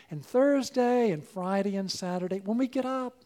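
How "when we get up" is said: ordinary talk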